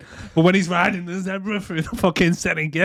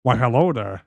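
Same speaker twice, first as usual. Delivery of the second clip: lower, mock-suave hello; bad Sean Connery; 4 semitones lower than usual. Hotel guest greeting a woman, bad Connery. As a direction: badly imitate a sophisticated charmer. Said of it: "he tries to do, uh, Sean Connery".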